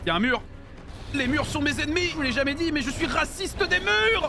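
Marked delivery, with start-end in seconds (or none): 1.1-4.3 raised pitch, slowing on the punchline; mock indignation. Streamer confessing a feud with walls, mock indignant.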